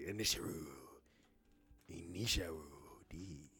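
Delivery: put-on soft, low Japanese-accented title; mock Japanese accent. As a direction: savour it quietly in a Japanese accent. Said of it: "the Japanese accent".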